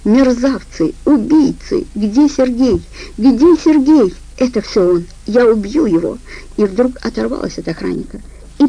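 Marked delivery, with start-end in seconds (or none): 0.0-6.2 raging scream. Acted. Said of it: "рыдала, орала".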